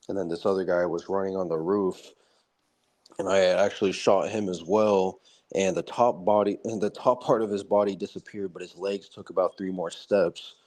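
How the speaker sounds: lightly imitated calm veteran, a little low; Nicholas Irving. Ex-soldier describing shooting a man on the roof, calm. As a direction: recount the gore as if it were routine. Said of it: "always so calm when he's talking about it".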